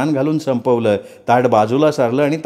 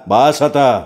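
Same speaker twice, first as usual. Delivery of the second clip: mild narrated shout; 3 dB louder, slower than usual. A narrator's reading. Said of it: "मोठ्या आवाजात ओरडला".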